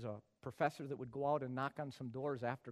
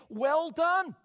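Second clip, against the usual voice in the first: high, loud cried well done; 13 semitones higher, 14 dB louder than usual. Shown as a demonstration. Preacher crying out Well done loudly. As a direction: cry out Well done at full force. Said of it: "Could I say to them".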